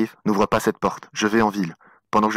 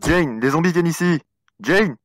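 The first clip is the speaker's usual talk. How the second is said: fast, raised, panicked call; urgent warning; 4 semitones higher, faster than usual. Acted. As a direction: warn her in a rush.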